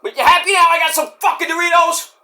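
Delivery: high, fast, squeaky cartoon voice; squeaky voice offering Doritos; squeaky silly voice. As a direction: play a goofy squeaky character. Squeaky voice again.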